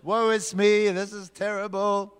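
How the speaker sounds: mock mourning. Shown as a demonstration. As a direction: moan it out like a grieving Ninevite. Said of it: "Can I hear a bit of mourning?".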